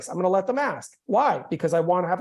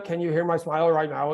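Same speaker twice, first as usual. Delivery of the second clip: no smile; 4 semitones lower than usual. Shown as a demonstration. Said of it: "If I get rid of it".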